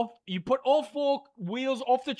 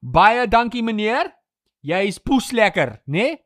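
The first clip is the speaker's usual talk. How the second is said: playful Afrikaans; 4 dB louder than usual. Pretend. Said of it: "I'll speak Afrikaans".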